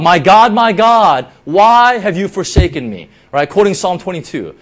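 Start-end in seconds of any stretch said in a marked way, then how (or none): 0.0-3.1 loud anguished cry to God, not a full scream. Retold or imitated. Preacher voicing Jesus on the cross, crying out loud. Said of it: "Jesus cries out".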